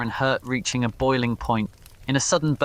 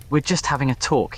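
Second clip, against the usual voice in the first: strained and tense; 3 semitones higher, faster than usual. Acted. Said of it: "his voice strained and tense".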